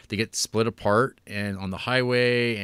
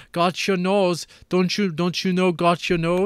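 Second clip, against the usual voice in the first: put-on higher, louder, stilted kid line reading; mocking bad child actor; 8 semitones higher, 4 dB louder than usual. Mocking the daughter's bland delivery, high and stilted. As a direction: parody the worst line reading imaginable. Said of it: "is this fucking Tommy Wiseau?".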